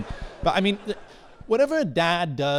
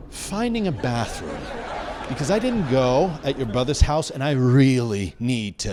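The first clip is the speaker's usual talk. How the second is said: unhurried imitation of a calm father, with long pauses; very calm dad; 4 dB louder than usual. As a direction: explain it patiently to your kid, pausing between phrases. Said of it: "He looked at me very calmly".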